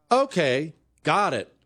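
lightly mimicked phone robot, in halting chunks; automated phone system. Phone system confirms a prescription after a long pause, lightly imitated automated voice. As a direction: imitate a recorded system reading back information piece by piece. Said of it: "We all know exactly what that sounds like".

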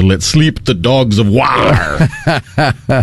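slow Early Modern English accent, "sleep" with a long ee; Shakespeare's English, "slip" said as "sleep", drawn out slowly. Shown as a demonstration. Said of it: "it was closer to".

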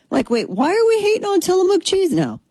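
very high, exaggerated disbelief; mock bafflement. Host reacting to the cheese boycott, high mock bafflement. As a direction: squeal the question in comic confusion.

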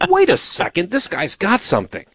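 high-starting double take, settling down; mock shocked realization. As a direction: imitate her astonishment, teasingly. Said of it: "you're always shocked by my abilities".

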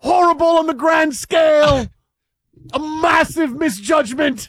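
high, loud mock-English proclamation; English accent. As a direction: declaim it in a hammed-up English accent. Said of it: "do this in an English accent".

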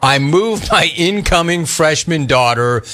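slow, punchy complaint read with stretched key words; listener-beef read. Acted. Host reads a middle-aged clones beef, in a punchy complaint read. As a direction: draw out the gripe for effect.

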